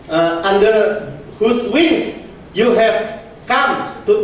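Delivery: slow, deliberate verse reading; scripture reading. Shown as a demonstration. Preacher to the congregation, slow scripture reading. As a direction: read the blessing aloud slowly, word by word. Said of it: "Tadi kan dikatakan".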